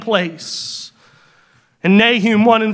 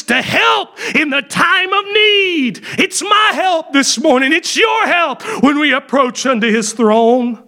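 fervent preaching; 3 semitones higher than usual. Acted. Preacher tells the congregation God is personal help, fervent. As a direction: rise into full fervour, slowing on need.

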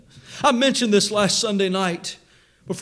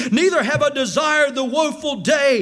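fervent plea; 4 semitones higher than usual. Acted. Preacher voicing Jeremiah's lament.

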